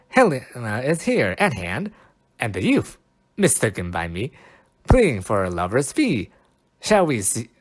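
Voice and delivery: dramatic Shakespeare reading. Acted. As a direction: proclaim it like a stage actor. Restarted reading.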